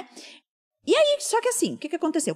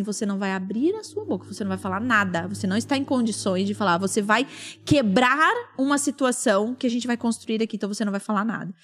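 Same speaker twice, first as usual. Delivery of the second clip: low, controlled retold command; stern prohibition; 3 semitones lower than usual. Husband warning wife before the room, stern. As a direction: forbid it firmly in a lowered voice.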